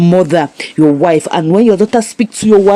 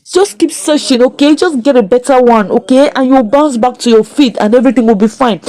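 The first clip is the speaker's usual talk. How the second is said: higher, encouraging daughter's voice; lightly voiced daughter; 5 semitones higher than usual. Daughter consoles her jobless father, lightly voiced higher. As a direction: lightly play a child consoling a parent. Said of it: "The child was like".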